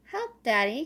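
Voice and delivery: loud call for help; crying for help. Acted. Little Squirrel stuck in mud calls Daddy, loud. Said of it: "cried Little Squirrel".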